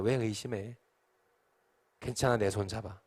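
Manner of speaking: hushed, caring invitation; gently reassuring. Acted. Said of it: "웃으며 손 내미십니다".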